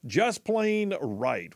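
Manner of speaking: lightly mimicking the promo voice, drawn out; slow, stretched slogan echo; echoing the jingle announcer. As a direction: repeat the station slogan like the announcer did. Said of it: "like the dude just said".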